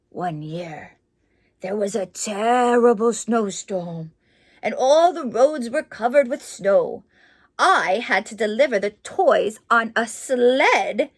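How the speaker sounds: story narration. A narrator's reading. Reads picture book aloud.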